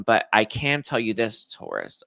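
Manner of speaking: fighting back tears; choked up. Real, not acted. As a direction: voice breaking on the name. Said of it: "making me real emotional".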